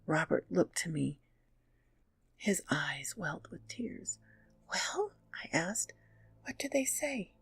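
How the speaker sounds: hushed, breathy campfire whisper; whispered storytelling. A narrator's reading. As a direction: tell it like a secret in the dark. Whispered narration throughout.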